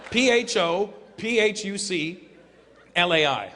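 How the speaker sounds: slow letter-by-letter spelling; spelling out slowly. Shown as a demonstration. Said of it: "restaurant called Pho Fuck Lai".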